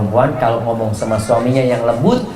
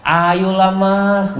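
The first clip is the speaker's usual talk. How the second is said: coaxing plea; 4 semitones higher, much slower than usual. Shown as a demonstration. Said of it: "nggak ada kayak gitu".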